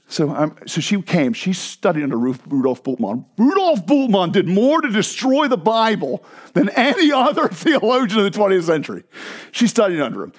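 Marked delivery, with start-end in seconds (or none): 3.4-9.0 put-on German accent. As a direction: imitate a German scholar's emphatic accent. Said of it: "she was a thick German accent".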